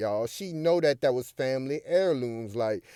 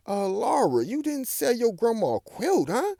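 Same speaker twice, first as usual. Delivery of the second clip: Curl's voice; 10 semitones higher than usual. Retold or imitated. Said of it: "Curl up there up top like".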